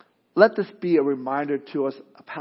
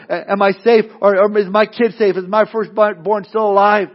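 anxious Israelite; 4 semitones higher, 7 dB louder than usual. Acted. Israelites fearing for their firstborn.

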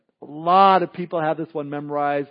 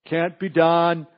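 mock naysayer; 3 dB louder than usual. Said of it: "the people that always say".

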